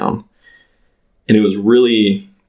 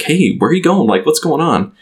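retold scream; 7 semitones higher than usual. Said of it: "like, screaming".

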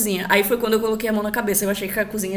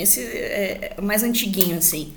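ordinary talk, nothing marked

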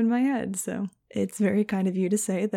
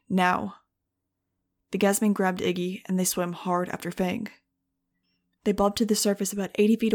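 steady audiobook narration voice; story narration. A narrator's reading. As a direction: read the chapter like an audiobook. Audiobook chapter read aloud.

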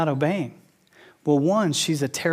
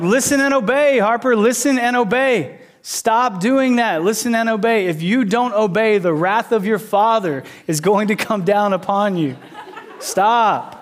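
raised, mock-stern father voice; stern dad; 2 semitones higher than usual. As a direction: play the booming strict dad, half joking. Dad scolding daughter on trampoline.

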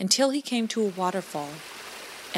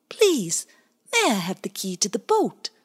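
polite otter; 2 semitones higher, 4 dB louder than usual. Acted. Bowie asks the blackbird for the key, polite plea. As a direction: ask nicely.

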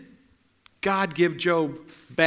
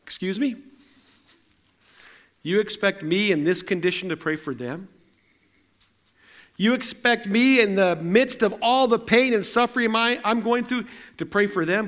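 indignant disbelief; 2 semitones higher than usual. Retold or imitated. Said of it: "I think my attitude would have been".

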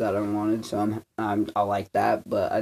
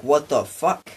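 mock angry shout; 4 semitones higher, 5 dB louder, slower than usual. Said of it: "I'm like".

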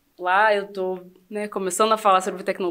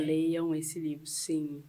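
LEIAM drawn out slow, voice settling softer; emphatic intonation; 3 semitones lower, 7 dB quieter, slower than usual. Real, not acted. Guest urging listeners to read the memoir, emphatic intonation. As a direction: make LEIAM a slow, deliberate command. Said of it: "ela meteu na entonação".

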